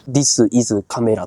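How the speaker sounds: English with a Japanese accent. Shown as a demonstration. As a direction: say the English words with Japanese sounds. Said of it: "日本人が英語話すとき".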